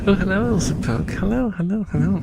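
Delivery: wobbly robot voice into a spinning fan; robot voice through fan. Pretend. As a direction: talk into the fan blades like a robot. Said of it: "speaking to the fan for robot voice".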